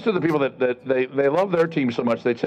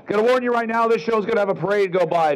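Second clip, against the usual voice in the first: announcer voice; 8 semitones higher than usual. Acted. Loud show announcement.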